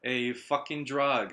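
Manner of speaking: slow, emphatic imitation of a friend's warning; retold warning. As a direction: stretch every English word in a retold telling-off. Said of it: "って言われて".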